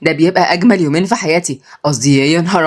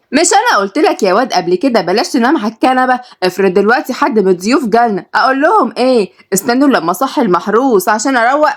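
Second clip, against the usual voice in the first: higher, nagging mom voice; scolding mother; 5 semitones higher than usual. Acted. Mother scolds son for sleeping on couch, higher nagging voice. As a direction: tell the lazy son off sharply. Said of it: "قربت عليه مامته".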